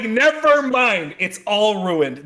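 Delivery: high, loud, drawn-out mock despair; exasperated outburst. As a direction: wail it out in hammed-up frustration. Acting out frustrated letdown over comic.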